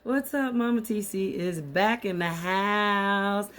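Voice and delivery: raspy, worn-out greeting; hoarse from being sick. Real, not acted. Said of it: "my voice sounds hoarse".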